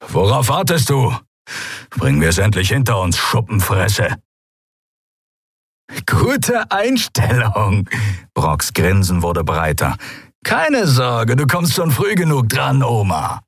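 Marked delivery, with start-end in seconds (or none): 0.1-4.2 defiant. Acted. Keru defies the guard. 6.1-7.9 high, rasping scornful voice; rasping sneer. Acted. Draxyl sneers. 10.4-13.4 high, rasping scornful voice; rasping sneer. Acted. Draxyl mocks Xea.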